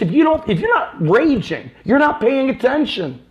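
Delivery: rising insistence, building to the point; heated rant. Real, not acted. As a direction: hammer it home to the viewers. Ranting repeat about raging.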